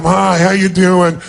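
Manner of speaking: slow, can't-be-bothered hello; bored greeting. Shown as a demonstration. Speaker to seminar crowd, showing a bored, uninterested greeting. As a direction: greet them like it's a waste of your time. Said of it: "like it's a total waste of your time".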